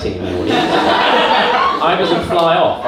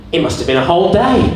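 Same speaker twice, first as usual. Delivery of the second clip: voice of the body; 3 semitones higher, 5 dB louder, faster than usual. Acted. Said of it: "your body takes all those seconds to go".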